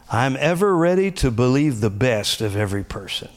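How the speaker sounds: declaring. Shown as a demonstration. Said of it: "speak it out loud like the confessions".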